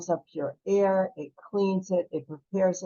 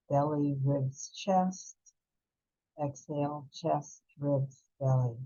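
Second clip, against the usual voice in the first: calm, unhurried breath-work guide voice; soothing meditation teacher, leading the class; guided breathing meditation. Acted. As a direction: guide them gently through each breath.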